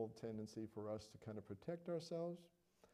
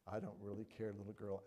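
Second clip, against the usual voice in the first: mock nonchalance; 5 semitones lower, 6 dB quieter than usual. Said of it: "stoic, non-caring, nonchalant".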